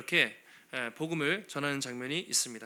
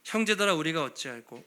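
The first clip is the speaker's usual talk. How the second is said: great lament; 6 dB louder than usual. Acted. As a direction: wail over the guilt of killing Jesus. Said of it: "엄청난 탄식".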